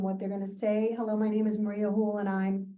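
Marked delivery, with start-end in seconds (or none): 1.0-2.7 Maria Hool run straight into and I'm; blurred name. Shown as a demonstration. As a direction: rush past the last name. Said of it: "people blur the end of the last name".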